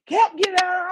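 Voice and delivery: high, loud demand; retold yell. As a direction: shout it at the nephew. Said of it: "still yelling at me".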